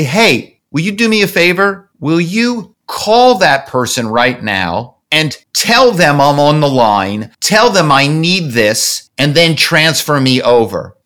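slow, lightly put-on German accent; Frankfurt caller's accent. Frankfurt caller asking the Chicago executive a favor, light German accent. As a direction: draw the words out with a hint of German accent. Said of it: "I'm the guy in Frankfurt".

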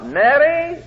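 high called-out name; calling out. Retold or imitated. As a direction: call to her in the next room. Husband calling his wife.

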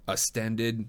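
"ascended" misspoken as "astanded"; misspoken word. Real, not acted. Narrator checks a fluffed word, "ascended" said as "astanded". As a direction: test "ascended" wrongly, with a t. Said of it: "that's not quite it".

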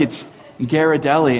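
"Ghirardelli" with a hard g, Gara-delli; correcting Ghirardelli. Retold or imitated. Churchgoers correcting the pastor, hard-g "Ghirardelli". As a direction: open "Ghirardelli" with hard g as in Gary. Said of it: "you pronounced Ghirardelli wrong".

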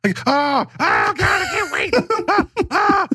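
high, thrilled gushing; excited. Real, not acted. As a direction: squeal with real excitement. Thrilled about wizard game.

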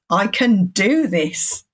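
slow, "do" pressed down firmly; stress on do. Shown as a demonstration. Mantra again, slow and firm on "do". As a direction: slowly lean into "do". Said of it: "you put different emphasis on the different words".

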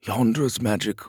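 slow, halting wizard voice; hesitant. Acted. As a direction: break it up with uneasy pauses. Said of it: "the other wizard said hesitantly".

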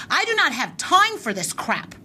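heated, rising indignation; reliving the anger. Retold or imitated. Telling the clerk off at the store, heated and high. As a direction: pitch climbing as the outrage builds. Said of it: "Are you reliving it right now?".

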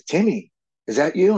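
put-on a lifted voice for the old man; voicing old friend's father. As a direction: call out his name in disbelief. Old man voiced in retold story.

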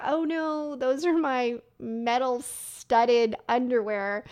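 lightly acted dismay, starting high then slowing; mock dismay. Woman retelling the scanner mishap to listeners, mildly mock-dismayed. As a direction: replay the embarrassed realisation with mild mock horror. Acts out her dawning embarrassment.

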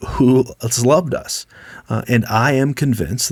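scripture read out full-voiced; booming reading. Shown as a demonstration. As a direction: proclaim it, don't whisper it. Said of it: "with a big booming voice".

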